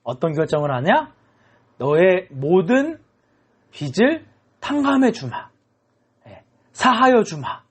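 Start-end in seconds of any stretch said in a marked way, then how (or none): 1.8-7.6 lightly voiced king, raised pitch; a hint of a royal pronouncement; magnanimous king. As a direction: grant mercy in a slow, measured decree. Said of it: "왕이 통 큰 결정을 합니다".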